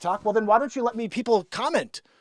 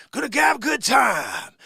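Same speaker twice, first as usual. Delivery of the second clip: lightly voiced Scarface, shouted high; a hint of a hammed-up Scarface yell; Al Pacino as Scarface; 7 semitones higher, 4 dB louder than usual. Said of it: "Going out, do Scarface".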